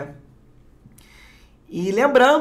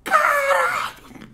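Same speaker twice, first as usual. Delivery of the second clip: high, slow, stretched astonished cry; a drawn-out disbelieving yelp at the pull; stunned exclamation; much slower than usual. Real, not acted. Vlogger cries out after pulling a rare card, high and stretched.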